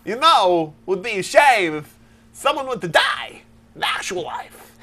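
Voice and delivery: slow, halting Walken drawl; Christopher Walken impression. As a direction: pause oddly like Walken. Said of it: "Christopher Walken".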